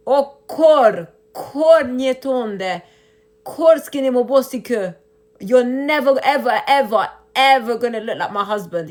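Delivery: fed-up outburst at online trolls; angry scolding. Real, not acted. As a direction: let them have it, hard and loud. Scolding the men attacking her.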